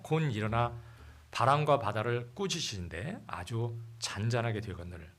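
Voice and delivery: loud, solemn Bible reading; scripture reading. Acted. Pastor reading the storm passage aloud, solemn and loud. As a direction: proclaim the verses to the congregation.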